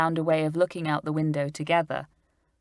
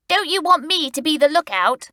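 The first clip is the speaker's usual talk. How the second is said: put-on higher young boy voice for Stan; Stan asking; 10 semitones higher, 4 dB louder than usual. A narrator's reading. Stan asking Julian to let him keep watch, hopeful. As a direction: plead to be the lookout. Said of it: "asked Stan".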